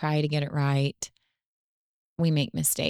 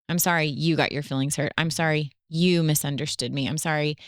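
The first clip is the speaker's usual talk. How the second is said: "you" leaned on in a mock apology; stress on YOU. Wife showing a puffed-up apology to husband, blame landing on "you". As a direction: put the inflection on "you", as if blaming. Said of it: "we put all the inflection on the person".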